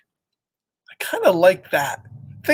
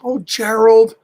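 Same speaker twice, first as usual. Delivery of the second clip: comforting Piggy; 3 semitones higher, 4 dB louder than usual. Acted. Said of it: "Piggy's trying to cheer him up".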